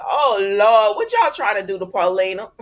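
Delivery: loud laughing oh lord; laughing dismay. Real, not acted. Vlogger reacting to Paulina's storyline, laughing dismay. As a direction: laugh through mock alarm.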